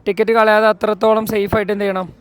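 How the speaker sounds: loud, pumped-up vlog voice; energetic. Real, not acted. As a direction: turn the energy way up. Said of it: "നമ്മൾ energetic ആയിട്ടില്ല എന്നുള്ളത്".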